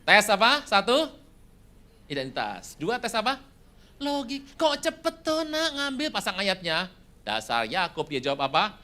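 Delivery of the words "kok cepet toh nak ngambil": put-on high questioning old father; lightly voiced father asking, suspicious; a touch of a puzzled old man; voicing Isaac. Father questions son's quick return.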